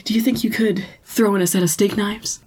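whispered quote. Acted. Acted quote in recap.

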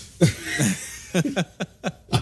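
laughing high and hard; high burst of laughter. Real, not acted. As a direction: let out a big laugh. Laughs at own freestyle.

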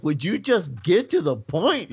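retold impatience, stretching the words; eye-rolling exasperation. Paramedic listening to endless spiel, exasperated. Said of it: "I'm just rolling my eyes like".

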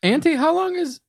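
squeaky high character voice, laughing; high goblin voice. Acted. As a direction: talk like a small excited goblin.

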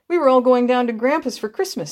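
put-on a small boy moping over a spoiled trip; doleful little boy. A narrator's reading. Oldest boy telling the strangers Christmas is ruined, doleful child voice. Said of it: "said the little mother's oldest boy dolefully".

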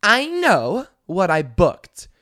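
entitled passenger cutting off the stewardess; rapid no's. Retold or imitated. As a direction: refuse in a furious rush. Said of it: "She goes".

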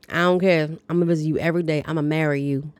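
weak attempt at a Southern accent; lightly put-on Southern accent. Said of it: "attempting to be Southern accent".

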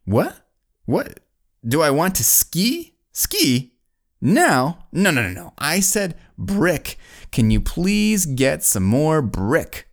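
high-pitched, acted confusion; baffled builder. Confused builder misunderstanding foreign reply.

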